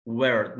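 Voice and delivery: "ويرد" with an R-coloured er vowel; fronted er vowel. Shown as a demonstration. Teacher modelling er in a word, fronted vowel. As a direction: say "ويرد" low, leaning the vowel towards i. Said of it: "مكسورة".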